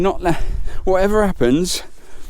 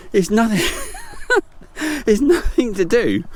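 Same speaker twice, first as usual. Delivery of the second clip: laughing; 4 semitones higher than usual. Real, not acted. Laughing at her muddy fall.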